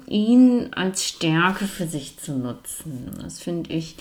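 mumbling through a wired jaw; talking with the teeth clamped together; jaw wired shut. Real, not acted. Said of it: "warum ich jetzt so ein bisschen nuschelig klinge". (mit verdrahtetem Kiefer genuschelt)

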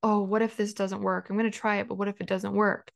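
hesitant, worried "what if" voice, mildly done; doubtful. Retold or imitated. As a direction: lightly voice the doubting self. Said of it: "because I think".

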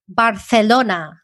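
Barcelona with a lisped c, said as th, slowly; Spanish lisp. Shown as a demonstration. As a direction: say Barcelona the Castilian way, c as th. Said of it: "Here in Spain, they say".

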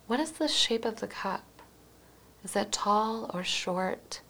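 gentle meditation guide, unhurried with pauses between phrases; guided meditation. Acted. Host guiding listeners through a mindful cup of tea, guided meditation. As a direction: lead listeners mindfully through each moment, leaving space after every question.

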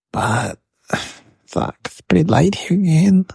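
hushed whisper, parents asleep; quiet at night. Real, not acted. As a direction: keep it down so nobody wakes. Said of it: "And my parents are sleeping".

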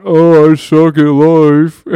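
loud, slow, drawn-out pretend outburst; hammed-up self-insult shout; mock yell. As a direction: blurt it out like an accidental yell. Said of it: "accidentally yell out".

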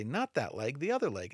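mildly exasperated, leaning on "not"; a half-hearted frustrated correction to a child; frustrated parent. Retold or imitated. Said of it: "get frustrated or angry with them and say".

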